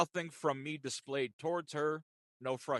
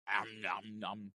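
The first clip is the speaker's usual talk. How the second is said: chewing noises; 7 semitones lower, 6 dB quieter, much slower than usual. Retold or imitated. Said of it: "all I hear is crunching".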